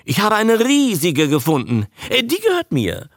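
high-pitched excited outburst; blurting Lee. A narrator's reading. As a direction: blurt it out, greedily claiming it. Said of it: "platzte Darling Lee heraus".

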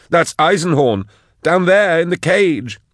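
high, loud, insistent; excited shout. Acted. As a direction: point and shout in alarm. Insisting, urgent.

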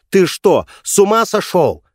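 high, loud shriek; wife screams at husband for smashing the phone; screaming. Acted. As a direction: shriek at him in outrage. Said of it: "завопила она".

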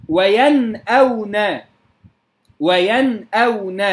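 وينأون with a crisp unstretched noon, then hamza; slow, measured recitation of وينأون with clear noon; clear izhar. Shown as a demonstration. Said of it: "بإظهار النون الساكنة". (إظهار النون الساكنة في وينأون)

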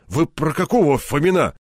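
scared colonel defending himself; flustered protest. Acted. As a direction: protest too fast. Colonel protesting his innocence.

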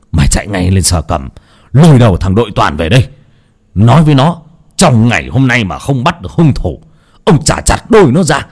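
master losing his temper, yelling for the police; enraged command rising in pitch; furious shrieking. Acted. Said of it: "Cậu la hét rầm trời".

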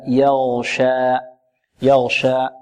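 يغشى with a thin ya and a pure open a; clear light ya. Shown as a demonstration. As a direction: slowly model يغشى, fatha not tilted. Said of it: "الياء لا نفخمها".

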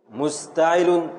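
syllables drawn out slowly; slow scansion. Shown as a demonstration. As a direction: sound out each syllable. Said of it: "teacher demonstrates shortened foot". (تقطيع بطيء)

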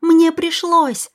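Kara cries out in her own defence against William; defensive cry. Acted. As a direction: fight back to defend herself. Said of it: "защищалась Кара".

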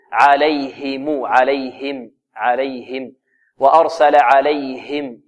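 slow "عليهم" with a distinct breathed ه; clear ha. Shown as a demonstration. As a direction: bring out the ha in "عليهم", unhurried. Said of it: "الهاء هذه لابد من إيضاحها". (إيضاح هاء «عليهم» بترتيل)

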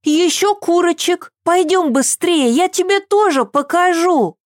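put-on high eager little girl; a thrilled child bursting in; excited child. A narrator's reading. Little Eva telling her nanny about the farm, excited.

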